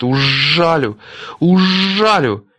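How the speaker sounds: rising loud buzzing threat. A narrator's reading. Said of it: "летит и жужжит". (жужжащая угроза)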